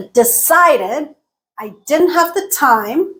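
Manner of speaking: DECIDED, DIDN'T and TIME stressed; content words stressed. Shown as a demonstration. Teacher breaking down the sentence, content words stressed. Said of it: "Decided got stressed".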